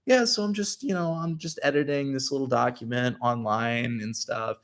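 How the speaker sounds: put-on offhand streamer talk; feigned nonchalance. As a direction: pretend you're busy with nothing much. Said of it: "nonchalantly, like, clicking around".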